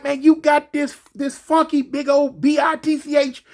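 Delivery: hammed-up furious cellmate yelling; imitating a jealous cellmate going off; angry inmate. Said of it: "He like".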